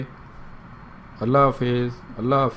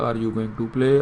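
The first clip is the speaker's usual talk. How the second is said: at normal speed; faster drill; 2 semitones lower, much slower than usual. Shown as a demonstration. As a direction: run "Are you going to play" together smoothly. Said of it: "دیکھنا آپ کی speed بڑھے گی". (روانی سے)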